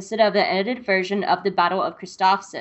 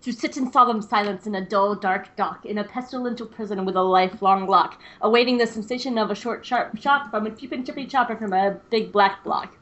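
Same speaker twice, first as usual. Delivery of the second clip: tongue twister. Shown as a demonstration. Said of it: "my voice isn't, like, warmed up".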